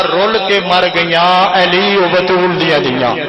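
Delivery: measured, slow recitation of verse; chanted majlis verse; poetry recital. Acted. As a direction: recite the rubai to the gathering. Recites the couplet.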